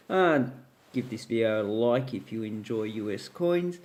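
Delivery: talking through a yawn; sleepy, mid-yawn delivery. Real, not acted. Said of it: "Gee, I keep yawning".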